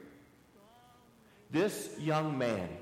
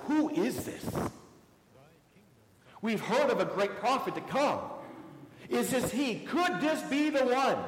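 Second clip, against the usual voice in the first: higher, amazed questioning crowd; bewildered crowd; 7 semitones higher than usual. Acted. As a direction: ask it in disbelief, pitched up. Bewildered crowd voiced in story.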